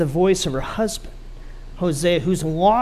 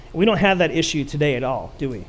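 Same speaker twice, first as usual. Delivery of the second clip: sarcastic; 2 semitones lower, faster than usual. Acted. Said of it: "That's total sarcasm".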